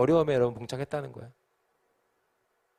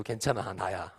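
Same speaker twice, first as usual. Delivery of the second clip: reassuring; 3 semitones lower, slower than usual. Acted. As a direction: say it low and easy, with a smile. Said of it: "웃으면서 안심시켜주고".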